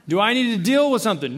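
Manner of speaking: lightly voiced dad warning. Dad asking squabbling kids, mildly stern. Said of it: "That's my dad voice a little bit".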